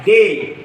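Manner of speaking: डे with the ay held; long ay sound. Shown as a demonstration. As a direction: model डे for learners, stretching the vowel. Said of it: "ए असा केलेला आहे". (डे मधला ए लांबवून)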